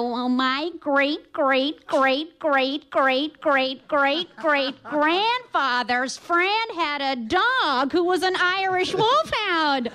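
lightly imitating a drawn-out American tourist; slow, stretched greats, mocking. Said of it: "they give it all that".

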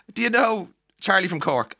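high, loud imitated enquiry; hammed-up keen stranger; mock eager question. Stranger abroad asking an Irish person, mock eagerness. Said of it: "the first question is".

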